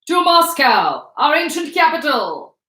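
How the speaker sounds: loud, slow, high proclamation; hammed-up high-pitched public reading; high-pitched reader. A narrator's reading. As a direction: declaim the appeal in a high voice. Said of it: "in her high-pitched voice".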